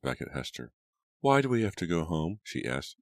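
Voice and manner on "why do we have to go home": lightly voiced child, higher pitch; a touch of childish protest, pitched up; complaining little girl. A narrator's reading. Abigail questions her brother about leaving, mildly complaining.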